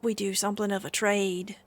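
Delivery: lightly voiced stable master making an offer; a hint of a haggard stable hand, pleading for the animal. Stable master offers a traveler a trade, lightly voiced haggard man. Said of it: "And the man looks to you and says".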